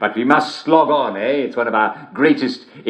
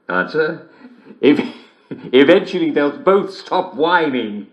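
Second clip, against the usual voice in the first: slow, chuckling through it; laughing punchline; 4 semitones higher than usual. Acted. Host giggling a punchline to listeners. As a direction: chuckle your way to the end.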